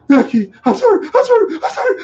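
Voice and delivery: very high, loud wailing plea; mock crying apology. Boy begs the bully who threatened him, high mock sobbing. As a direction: squeal a hammed-up tearful apology. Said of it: "I start crying".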